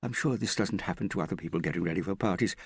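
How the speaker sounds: fraught, near tears. A narrator's reading. Prudence begs Hester to deal with Morgan, fraught, near tears. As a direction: plead and grumble while fighting back tears. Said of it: "she tried not to let the tears out".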